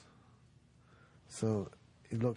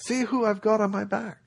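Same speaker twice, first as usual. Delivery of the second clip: much higher, loud eager announcement; excited proclamation; 12 semitones higher, 11 dB louder than usual. Acted. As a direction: call out proudly to the villagers. Monk shows villagers.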